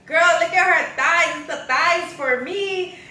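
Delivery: high-pitched, loud yelling. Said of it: "kept yelling at her like".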